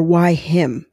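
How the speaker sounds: an unvoiced whisper on "Why him?". Shown as a demonstration. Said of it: "what I'm careful of not doing is saying".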